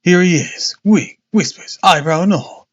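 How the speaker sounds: high triumphant reveal. Acted. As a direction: show off the disguise gleefully. Holmes reveals disguise.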